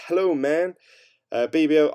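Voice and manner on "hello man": put-on American accent, higher pitched. Reading a viewer's chat greeting aloud in an American accent. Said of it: "did that in an American accent".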